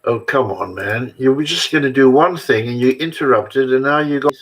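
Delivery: real mild exasperation; annoyed. Real, not acted. Vlogger scolding the helper who interrupted, mildly annoyed. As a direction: complain at being interrupted, mildly irritated. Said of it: "Don't get angry with me".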